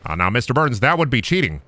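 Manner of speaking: lightly voiced obedient assistant; Smithers. Smithers answering his boss, lightly voiced assistant.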